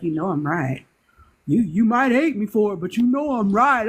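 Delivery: smug friend voice. Retold or imitated. Friend telling her he's right, lightly voiced and smug. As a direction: play the friend who knows he's right.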